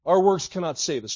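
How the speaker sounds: preacher's forceful repeat. Shown as a demonstration. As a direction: hit Our works cannot save us hard the second time. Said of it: "let me just say to you".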